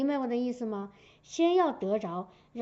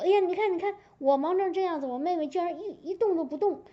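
complaining Martha; 5 semitones higher, faster than usual. Retold or imitated. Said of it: "他就来抱怨".

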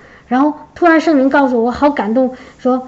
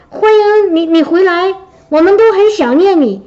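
mild mock shout; 5 semitones higher than usual. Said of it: "老板从很远的地方冲着我喊".

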